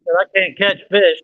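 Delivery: emphatic repeat. Real, not acted. Repeats after listener asks "Do what?.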